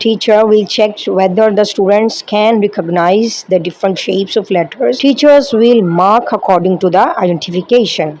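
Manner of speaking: slow, measured English read from a script. Acted. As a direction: read each phrase out slowly like a formal guideline. Reads training script slowly in English.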